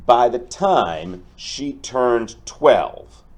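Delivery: lively storybook read-aloud for a class; reading to children. Acted. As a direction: tell the tale to the kids with expression. Teacher reads picture book aloud.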